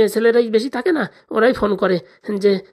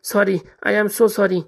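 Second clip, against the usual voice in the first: very slow, exaggerated apology; drawn-out sorry; much slower than usual. Husband drags out a forced apology to his wife, very slow. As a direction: stretch every word out to appease her. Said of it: "আমার সরি বল".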